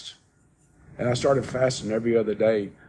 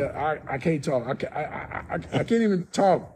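choked up; 3 semitones higher than usual. Retold or imitated. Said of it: "So I told Ruthie".

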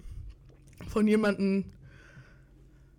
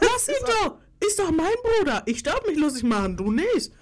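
excited; 8 semitones higher, 4 dB louder than usual. Real, not acted. Playful protective argument.

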